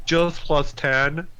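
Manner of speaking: high, drawn-out echo of a boast; mock casual boast. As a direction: stretch it out high, making light of it. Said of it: "I say it like it's nothing".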